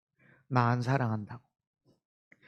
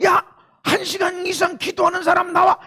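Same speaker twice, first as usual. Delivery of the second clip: high, loud calling-out; mock roll-call shout; loud summons; 10 dB louder than usual. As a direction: call them forward at full voice. Acts out the Lord summoning people.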